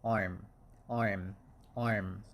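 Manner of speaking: "arm" dengan vokal panjang "aa"; long vowel. Shown as a demonstration. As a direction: stretch the "a" in "arm". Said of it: "long vowel sound".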